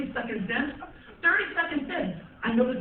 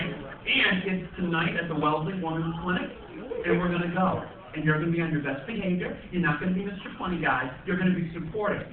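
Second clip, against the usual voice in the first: lower, brisk instructions; lightly voiced bossy wife; 6 semitones lower, 4 dB quieter than usual. Wife laying down rules before the class, brisk. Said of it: "She's like".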